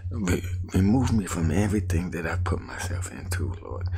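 begging the Lord for help; a desperate prayer, voice climbing; pleading prayer. Retold or imitated. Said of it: "I said".

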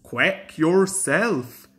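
slow, indignant retort. Acted. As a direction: bristle with offence. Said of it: "said Duck indignantly".

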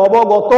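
অবগত with a clear o at the end, obogoto; final vowel sounded. Shown as a demonstration. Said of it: "অ বলছি লাস্টে এসে".

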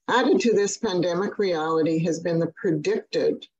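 predicted given extra weight, said firmly; stress on predicted. Real, not acted. Speaker to healthcare leaders, stressing that the shortage was predicted. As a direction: lean into the word predicted. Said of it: "I emphasize that word predicted".

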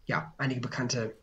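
hesitant, trailing stammer with fillers; stotternd. Real, not acted. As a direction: fumble along, restarting and losing the thread. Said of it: "zurecht stottere". (stockend vor sich hin stotternd)

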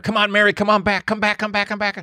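high, urgent repeated calls; imitated yelling. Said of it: "they're yelling at her".

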